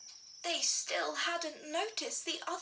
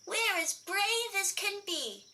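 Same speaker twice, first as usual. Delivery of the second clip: proud boast; 6 semitones higher than usual. Acted. Little bear boasting.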